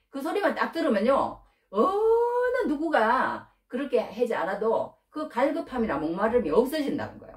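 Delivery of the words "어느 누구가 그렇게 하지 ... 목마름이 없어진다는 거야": near tears. Real, not acted. Preacher moved to tears over God's love.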